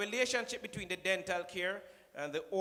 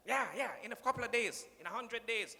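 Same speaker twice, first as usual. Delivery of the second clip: lightly voiced breezy brag, a touch higher; mock Trump bragging; 6 semitones higher than usual. Speaker mocking Trump's hundred days, light breezy brag. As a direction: wave it off like it's nothing. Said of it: "when him come into the work".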